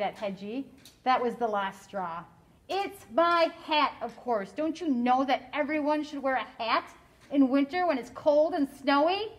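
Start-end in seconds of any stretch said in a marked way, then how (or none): 2.7-9.3 mild mock shout. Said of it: "Hedgie shouted".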